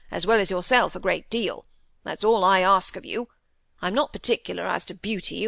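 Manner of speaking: lightly voiced squire, emphatic and put out; a touch of the stern father; blunt squire father. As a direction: lay down the law, mildly. Squire retorts and lectures his son.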